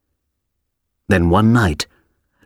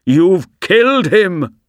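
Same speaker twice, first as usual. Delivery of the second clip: higher, slow, horrified accusation; anguished shout; 9 semitones higher than usual. A narrator's reading. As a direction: cry out the accusation in horror. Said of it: "he shouted at the old dog".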